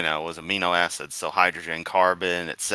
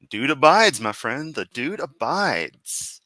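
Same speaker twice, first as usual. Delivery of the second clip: laid-back dude; 5 semitones higher, 3 dB louder, slower than usual. Retold or imitated. Quoting The Big Lebowski.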